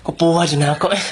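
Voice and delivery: unvoiced whisper. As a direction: breathe it out with no voice. Whispered aside. (hinunghong nga pagsulti)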